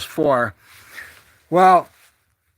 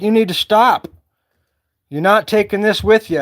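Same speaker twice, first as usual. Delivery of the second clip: mildly voiced divine scolding; mad Lord; 2 semitones higher, 3 dB louder than usual. The Lord scolding a gold-hoarding dreamer, retold as mildly mad. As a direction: retell a firm telling-off, lightly acted. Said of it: "the good Lord was getting mad at me".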